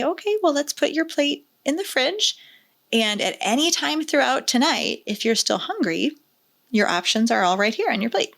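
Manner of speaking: high, light and even, no fuss; calm parent voice. Retold or imitated. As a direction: tell the child kindly, plainly. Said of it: "I would just say".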